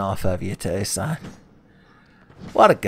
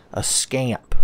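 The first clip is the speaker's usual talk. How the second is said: whisper; 3 semitones higher than usual. Real, not acted. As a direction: breathe it out under your breath. Affectionate aside.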